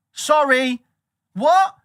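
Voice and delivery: very high, loud disbelief; mock outraged what; shocked partner. Partner reacting to the Bitcoin buy, very high mock shock.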